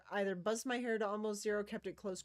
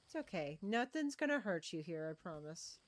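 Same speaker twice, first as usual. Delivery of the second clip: soothing reassurance; 2 semitones lower than usual. Real, not acted. Soothing scared creature.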